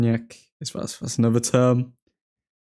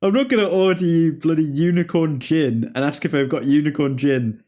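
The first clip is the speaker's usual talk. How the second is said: exasperated retort; 3 semitones higher than usual. Retold or imitated. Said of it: "I was like".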